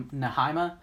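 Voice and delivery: "Nehemiah" as nuh-HIGH-muh, rising; unsure pronunciation. Shown as a demonstration. Teacher guesses at a Bible name, questioning "Nehemiah" as nuh-HIGH-muh. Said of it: "that's how we'll say it".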